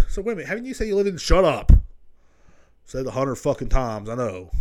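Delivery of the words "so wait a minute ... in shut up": mock self-argument. Argues with himself about hometown.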